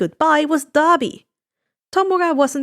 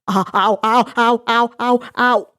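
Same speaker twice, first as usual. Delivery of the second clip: whining. Acted. Giran whining while Inko pulls his ear, mock pain. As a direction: whine like your ear's being yanked. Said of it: "The broker whined".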